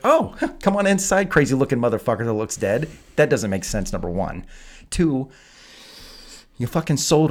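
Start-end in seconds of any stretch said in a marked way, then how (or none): 0.0-2.9 much higher and louder, laughing mock-naive invite; mock girly voice. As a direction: ham up a clueless girl inviting him in. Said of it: "She's like".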